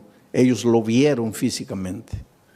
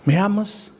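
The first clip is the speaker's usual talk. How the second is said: higher, gentle repeated question; a lightly voiced Jesus pressing the question; Jesus asking again; 8 semitones higher than usual. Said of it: "La última cosa que Pedro imaginaba".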